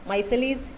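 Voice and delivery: माइसेलिस as "MY-se-lees", three syllables; variant pronunciation. Shown as a demonstration. Teacher repeating the variant for students, माइसेलिस pronounced "MY-se-lees". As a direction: open माइसेलिस like "my", close on "-lees". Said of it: "कुछ लोग इसको माइसेलिस बोलते".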